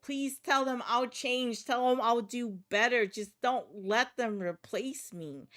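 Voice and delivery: high, loud pleading, slowing at the end; desperate pleading copy. Acted. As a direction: beg again, word for word. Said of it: "the imitation of his neighbor's blood-curdling cry is perfect".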